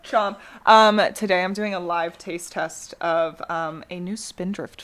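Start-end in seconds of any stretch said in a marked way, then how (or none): 0.0-0.4 laughing chomp. Real, not acted. Mocking mic chewing, laughing.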